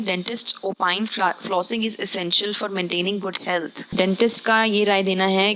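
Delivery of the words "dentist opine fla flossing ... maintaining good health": very slow, deliberate reading; slow dictation pace; slow example read. Shown as a demonstration. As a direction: spell it out slowly for students. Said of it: "sentences में मैंने इसको इस तरीके से इस्तेमाल किया है".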